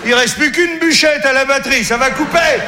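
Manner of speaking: hammed-up phone panic; mock panic. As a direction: yelp it out, rising in panic.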